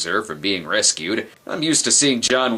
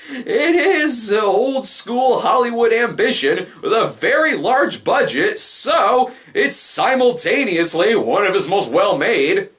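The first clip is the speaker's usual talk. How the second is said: giggling through the words, voice pitched up; laughing while talking; 11 semitones higher than usual. Real, not acted. Laughing mid-sentence about the film.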